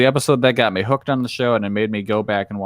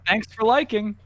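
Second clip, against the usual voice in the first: YouTuber sign-off; 11 semitones higher than usual. Pretend.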